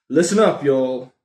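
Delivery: rally viewers with a mock American "Listen up, y'all"; American thing. Vlogger rallying viewers in a loud mock American accent. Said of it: "I'm doing the American thing".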